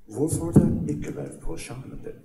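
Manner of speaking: put-on a child's question in Norwegian; child speaking Norwegian. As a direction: ask it like a curious little boy, in Norwegian. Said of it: "Use your English words".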